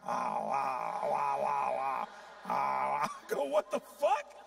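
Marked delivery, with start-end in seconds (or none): 0.1-3.1 mock wailing. Mimicking the salon lady's wailing. 3.5-4.3 high, loud what-the-fuck of disbelief; a much higher, louder cry of shock; shocked outburst. Retold or imitated. Shocked reaction to her.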